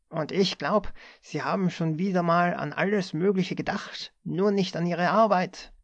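the boss lashes out at a dreamy clerk; snapping at him. A narrator's reading. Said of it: "fuhr ihn Wittmann an".

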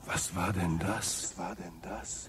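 soft, hushed and uneasy; frightened hush. Acted. Zafford hearing an eerie noise alone, hushed and spooked. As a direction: ask it under your breath, spooked.

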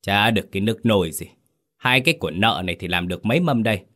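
fast, dismissive scoff; a hint of an icy mistress; cold disdain. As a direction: toss it off coldly. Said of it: "lạnh nhạt".

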